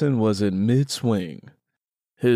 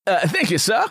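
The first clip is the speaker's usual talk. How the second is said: a light laugh, then higher, a hint of a humble worker; humble thanks; 9 semitones higher, 3 dB louder than usual. Willie taking his pay from Sykes, lightly voiced thanks. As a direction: chuckle and thank him, lightly raised.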